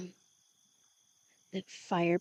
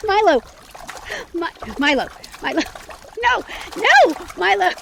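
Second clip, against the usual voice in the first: much higher, much louder shrieks of his name; shrieking protest; 11 semitones higher, 10 dB louder, faster than usual. Acted. Woman shrieking at Milo as he holds her feet over jets. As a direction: scream at him to stop, half laughing.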